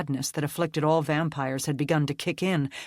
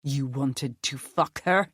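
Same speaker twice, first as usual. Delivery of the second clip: menacing rage. Acted. Nick continues deep rage.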